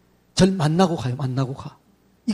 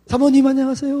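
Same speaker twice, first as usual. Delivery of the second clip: bright greeting; 5 semitones higher than usual. Shown as a demonstration. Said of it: "막 이렇게 하는 거죠".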